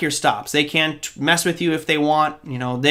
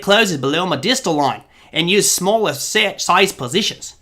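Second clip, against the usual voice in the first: bad Australian accent. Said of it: "terrible accent for Australia".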